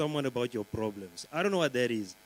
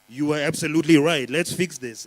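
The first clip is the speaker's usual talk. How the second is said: chatbot voice; 6 dB louder than usual. Retold or imitated. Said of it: "Chat G P T will go like".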